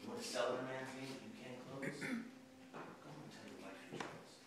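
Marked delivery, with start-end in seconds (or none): 1.8-4.4 slow, low dismissal; quiet scorn. Acted. Boss dismissing a man who can't close, quiet scorn. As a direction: send him away softly and slowly.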